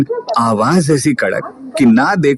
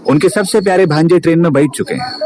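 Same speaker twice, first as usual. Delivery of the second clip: joking mood; 4 semitones higher than usual. Acted. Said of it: "Rohit थोड़ा मजाक वाले mood में बोला".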